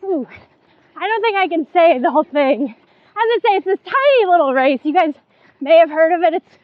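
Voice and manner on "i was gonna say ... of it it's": put-on fast, jokey Boston accent on "the Boston Marathon"; a hammed-up Boston accent, rushed. Announcing the Boston Marathon to listeners, mock Boston accent. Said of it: "That was my Boston accent".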